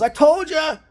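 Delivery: high, triumphant crow; a teammate proven right shouts it out; gloating told-you-so. Retold or imitated. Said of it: "he goes".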